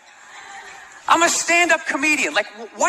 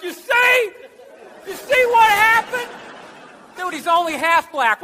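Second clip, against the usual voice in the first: mock redneck voice, higher; hammed-up redneck rant; 6 semitones higher than usual. Redneck crowd gloating about the election. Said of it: "They'll be like".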